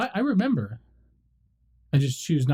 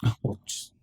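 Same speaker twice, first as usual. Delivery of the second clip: whisper; 4 semitones lower, 6 dB quieter than usual. Real, not acted. Sheepish aside after being corrected.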